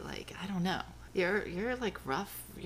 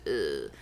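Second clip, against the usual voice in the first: disgusted ugh. Retold or imitated. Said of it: "and I said".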